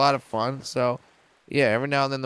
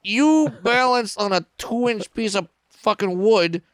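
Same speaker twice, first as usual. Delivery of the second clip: much higher and louder, slow and disbelieving; incredulous outburst; 8 semitones higher, 4 dB louder than usual. Retold or imitated. Comedian answering the Russian acrobat's praise, in loud high incredulity. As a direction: throw the compliment back in loud amazed disbelief. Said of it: "And I'm like".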